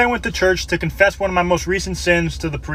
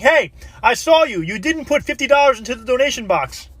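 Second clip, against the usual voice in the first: accusing call; 8 semitones higher than usual. Acted. Priest running after a man who skipped the donation, accusing. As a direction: call out an accusation in a raised pitch.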